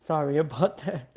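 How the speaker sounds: talking mid-yawn. Real, not acted. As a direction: yawn through the words. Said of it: "Sorry about the yawning".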